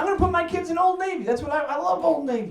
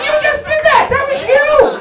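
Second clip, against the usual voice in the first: much higher, loud outraged protest; indignant yell; 12 semitones higher, 10 dB louder than usual. Retold or imitated. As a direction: yell it back at the barber in disbelief. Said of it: "I'm like".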